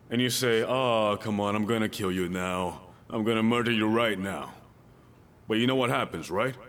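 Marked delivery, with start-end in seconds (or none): 0.6-4.5 low, contained mock menace; understated comic threat to a child; mock parental threat. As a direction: play an exasperated parent threatening under control.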